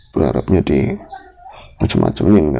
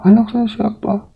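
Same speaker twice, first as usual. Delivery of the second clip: demanding question. Retold or imitated. Menirukan pertanyaan menuntut.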